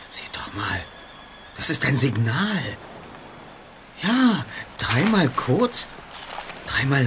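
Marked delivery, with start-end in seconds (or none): 0.1-2.8 whisper. Acted. Pointing out signal secretly.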